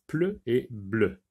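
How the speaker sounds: "pleu" with p, "bleu" with voiced b; contrasted p and b. Shown as a demonstration. Teacher shows pupils the difference, "pleu" against "bleu", each sound separated. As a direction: set "pleu" apart from "bleu" by the first consonant. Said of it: "la différence entre".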